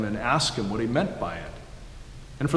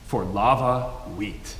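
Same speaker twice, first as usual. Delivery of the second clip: put-on playful old country accent; 3 semitones lower than usual. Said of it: "in his old country accent".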